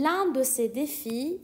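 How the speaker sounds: l'un de ces défis, very slow; slow repeat. Shown as a demonstration. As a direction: dictate it slowly to students. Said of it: "teacher repeats slowly".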